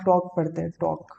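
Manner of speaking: टॉक said with no L sound; long open vowel in टॉक straight into the K; silent L. Shown as a demonstration. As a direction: say टॉक as "tawk", the L left silent. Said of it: "एल silent होता है".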